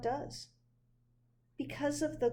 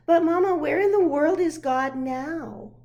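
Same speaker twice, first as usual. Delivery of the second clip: eager call; 5 semitones higher, 9 dB louder than usual. Acted. Child urgently asks mother.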